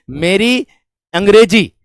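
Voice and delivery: normal talking voice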